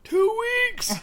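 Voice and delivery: high, loud shocked yelp of the words; excited shout. Pretend. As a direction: blurt it out in mock alarm. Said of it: "See, it never gets old".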